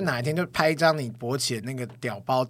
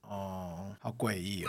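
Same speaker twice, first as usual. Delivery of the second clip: mock creeped-out; 8 semitones lower, 16 dB quieter, much slower than usual. Real, not acted. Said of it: "诡异个屁啊".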